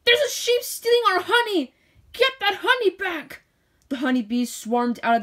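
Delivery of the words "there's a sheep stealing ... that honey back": roaring queen bee. A narrator's reading. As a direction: sound the alarm as the queen bee.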